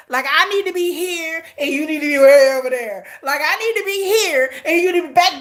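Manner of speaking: mock quote building to laughing push-away; hammed-up Candace. Viewer hams up Candace's line to her audience, laughing. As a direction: ham up the keep-your-distance line. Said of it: "Candace, you the real M V P".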